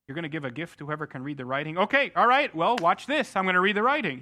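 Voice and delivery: cocky, watch-this bravado; boastful show-off. Retold or imitated. Preacher imitating his own bragging self, mock boast. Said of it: "I would say".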